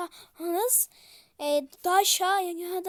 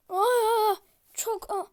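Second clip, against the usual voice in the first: hoarse after screaming; 4 semitones higher, 5 dB louder, slower than usual. Real, not acted. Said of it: "Sesim kısıldı".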